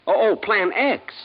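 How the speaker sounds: high, loud, slow gasp of recognition; startled realisation. Acted. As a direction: it suddenly dawns on him, loud and drawn out. Sudden realisation of the mission.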